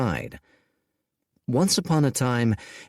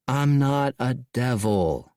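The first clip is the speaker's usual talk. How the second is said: sighing; 3 semitones higher, slower than usual. Acted. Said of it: "sighed Dorian".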